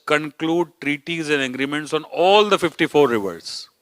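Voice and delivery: weight on "conclude" and a punched "all"; emphatic quoting. Real, not acted. Speaker reading treaty wording aloud, emphasizing CONCLUDE and ALL. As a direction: stress "conclude", then lean hard on "all". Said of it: "I am emphasizing the words".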